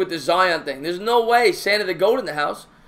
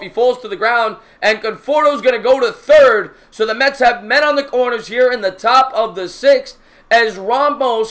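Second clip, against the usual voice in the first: louder, higher broadcaster call building on the drive; excited play call; 5 semitones higher, 6 dB louder than usual. Acted. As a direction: ride the ball into the gap. Calling a deep drive.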